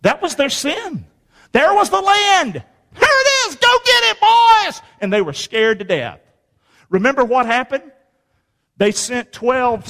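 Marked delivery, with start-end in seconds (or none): 2.5-4.8 high, loud, booming offer; voice of God. Acted. God urging Israel to take the land, high and loud. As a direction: hand them the land like a generous God.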